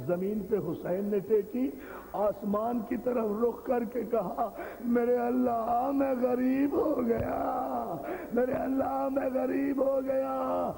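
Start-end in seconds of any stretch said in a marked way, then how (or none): 4.8-10.7 slow, tearful cry with a shouted break; a grieving father calling to heaven; crying out to God. Acted. Hussain's cry to God, quoted. (روتے ہوئے اللہ کو پکارنا)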